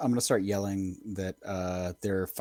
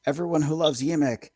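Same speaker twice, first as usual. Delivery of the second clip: rallying cry; 6 semitones higher, 4 dB louder than usual. Acted. Goblin rallying others to attack.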